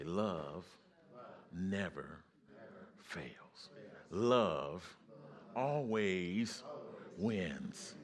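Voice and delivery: each word set apart with pauses; preacher's refrain. Real, not acted. Preacher leading the congregation, measured and slow. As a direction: lay it out word by word for the church. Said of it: "But everybody say".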